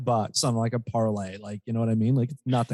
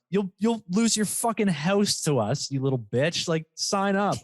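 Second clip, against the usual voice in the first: higher-pitched jeering sales pitch; mock taunting; 5 semitones higher than usual. Sportsbook to gamblers it fleeces, mock taunting. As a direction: jeer like a cocky bookmaker.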